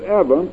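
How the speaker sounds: "Eva" as EV-a; Eva with short E. Shown as a demonstration. Preacher showing mother's pronunciation, "Eva" as EV-a. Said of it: "pronounced it Eva".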